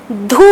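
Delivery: धू with a long, held "oo"; aspirated धू, vowel stretched; pronunciation demo. Shown as a demonstration. Teacher showing the pronunciation, धू drawn out. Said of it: "इसका उच्चारण होगा".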